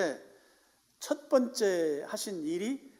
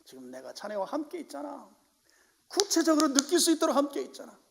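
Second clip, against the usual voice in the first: gentle assurance; 8 semitones higher than usual. Acted. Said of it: "꾸중하고 책망하는 게 아니고".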